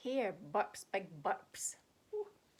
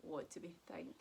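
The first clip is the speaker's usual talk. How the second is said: soft hushed whisper; breathy suspense whisper; 6 semitones lower, 9 dB quieter, faster than usual. Pretend. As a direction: whisper as if the bear might hear. Hushed after the sneeze.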